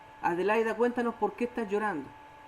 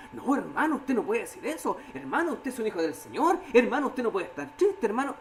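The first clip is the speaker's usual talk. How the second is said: lightly mocking church scolding, rising on each hermano; half-laughing imitation of a pious brother brushing sadness aside; teasing sing-song reproach; mock preachy rebuke. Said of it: "¿Y qué decimos?".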